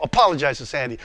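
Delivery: low, unmoved command; acted voice of God, firm and low; God's voice. God's unmoved reply in acted argument.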